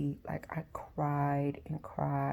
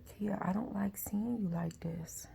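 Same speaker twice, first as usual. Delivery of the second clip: soft, higher imitation of a caring mother; tender concern; 4 semitones higher, 4 dB quieter than usual. Mother to crying daughter after the hug, tender concern. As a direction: gently voice a mother's worry, slightly breathy.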